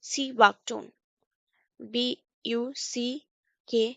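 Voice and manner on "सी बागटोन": "बागटोन" said with the R left silent. Shown as a demonstration. Teacher showing learners that R is silent here, "बागटोन" without R. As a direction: say "बागटोन" with no R before the final N. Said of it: "silent है".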